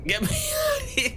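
high breathless whisper, laughing. Real, not acted. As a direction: whisper it through nervous laughter.

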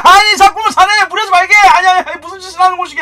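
put-on high, loud old-style scolding; loud hammed-up reprimand; mock scolding elder. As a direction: berate the game like a stern elder. Scolding the game like an old man.

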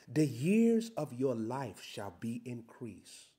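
slow, deliberate scripture reading, x0.7; read real slow. Shown as a demonstration. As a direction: drag out each word of the verse. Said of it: "let me read this real slow".

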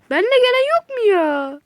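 high and loud, pleading for company; frightened plea; scared whine. Real, not acted. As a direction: whimper for teammates. Scared, alone in the dark.

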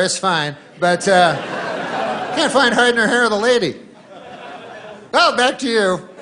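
hammed-up on-scene TV reporter; mock field reporter. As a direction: play the eager guy on location.

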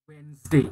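"Wednesday" with the S voiced like a Z; American "Wednesday", Z sound in the middle; American pronunciation. Shown as a demonstration. Teacher demonstrates the American Z sound in "Wednesday". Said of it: "S-nya itu bisa diganti dengan Z".

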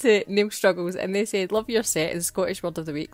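lightly voiced little dog, cheeky and chatty; Teddy the dog voice. Dog hosting Scottish Word of the Week, lightly voiced cheeky pup. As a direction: play the friend's wee dog hosting the show, only a hint of a put-on voice. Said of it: "it was wee Teddy, Natalie's dog".

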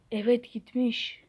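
slow unvoiced whisper. Hiding kid whispering the bird is gone. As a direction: whisper it slowly.

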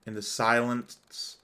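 measured, dramatic storytelling read; story narration. A narrator's reading. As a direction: narrate it gravely, phrase by phrase. Reads story narration aloud.

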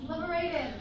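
lifted, proclaiming character; high dubbed voice. Acted. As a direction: announce freedom in a squeaky voice. Dubbed liberator speech.

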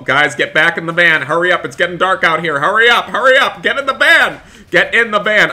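rising to a high, loud, frantic yell; urgent shouting. Acted. Yelling at friends to get back in the van before dark, frantic. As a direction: hurry everyone with mounting panic.

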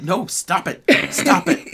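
high, loud scolding; scolding mom. Retold or imitated. Mother scolding her daughter in the store, loud. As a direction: hush the child sharply. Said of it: "her mom was like".

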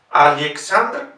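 Alexandr slow, E as ye, -lyek-; Alexandr, slow, Al-ye-ksandr; Russian ye. Shown as a demonstration. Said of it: "digo Alexandr y no Alexandr".

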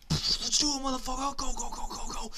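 loud, high hype shouting; excited yelling. Real, not acted. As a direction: fire everyone up to charge. Rushing teammates in game.

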